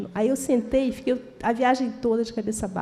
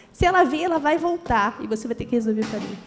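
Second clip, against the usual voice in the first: angry demand. Retold or imitated. She bangs the counter.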